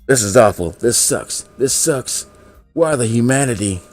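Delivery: high-pitched, worked-up fretting; nervous doom-laden rant; freaking out. A narrator's reading. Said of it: "he's majorly freaking out".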